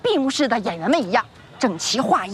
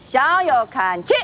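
drill command; slower than usual. Acted. Drill commands to lined-up kids.

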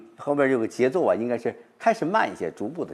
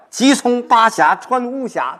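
much higher and louder, pressing onward; eager, urgent recitation; 12 semitones higher, 5 dB louder, slower than usual. Shown as a demonstration. Professor showing students how the rhythm turns urgent, eager declamation. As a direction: declaim it like rushing home. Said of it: "后边的节奏加快了".

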